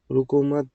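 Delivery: "रुको मत" joined, then a stop; grouped before pause. Shown as a demonstration. Teacher explaining how meaning changed, words grouped before the pause. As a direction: say "रुको मत" as one phrase and halt. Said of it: "कैसे?".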